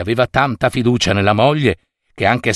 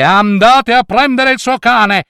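higher, louder goblin king shout; 8 semitones higher, 4 dB louder than usual. A narrator's reading. Impatient goblin king ordering the dog, shouting. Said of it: "gridò il re dei folletti".

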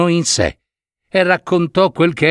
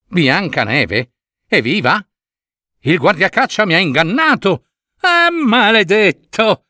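disbelief rising to a higher furious cry; queen's fury; 6 semitones higher than usual. Acted. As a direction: start stunned, end in a curse. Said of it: "ebbe un sussulto di rabbia". (la regina, dallo stupore alla rabbia)

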